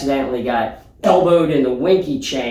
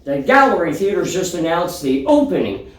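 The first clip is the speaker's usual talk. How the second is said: breaking news read. Pretend. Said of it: "hot off the presses".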